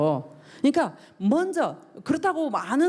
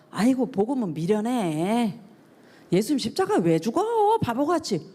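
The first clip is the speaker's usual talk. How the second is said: mock dismissive scoff. Skeptics brushing off the gospel as foolish, mock dismissive. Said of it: "이런 식으로 표현을 한다라는 거죠".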